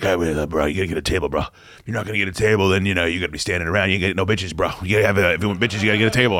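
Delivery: lightly voiced party bro; frat bro. Quoting friend Tor's bro talk.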